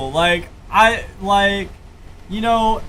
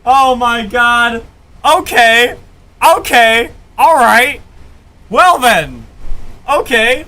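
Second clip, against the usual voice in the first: loud stunned okays; 6 dB louder, slower than usual. Real, not acted. Recovering from the surprise.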